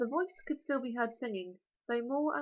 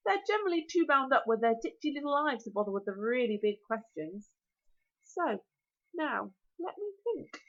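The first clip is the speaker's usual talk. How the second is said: dragon voice. Acted. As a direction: relish every word like a huge dragon. Dragon voice held in reading.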